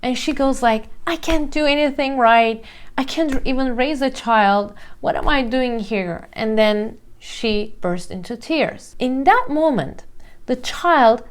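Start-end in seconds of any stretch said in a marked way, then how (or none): 1.1-6.3 a touch of tearful despair, pitched higher; mock mother falling apart in lightly teary voice; crying mother. Despairing mom to her crying child, lightly tearful. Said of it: "She starts crying too".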